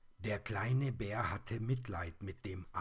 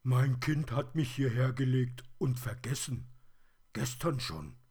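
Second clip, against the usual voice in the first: high, loud, complaining toy voice; raised, insistent teddy character; aggrieved plush teddy; 6 semitones higher, 7 dB louder than usual. A narrator's reading. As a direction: pour out a forgotten teddy's grievance.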